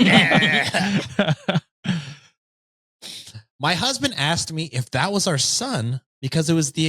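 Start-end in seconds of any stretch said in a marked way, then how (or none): 0.0-1.3 laughing. Real, not acted. Laughing at the misreading.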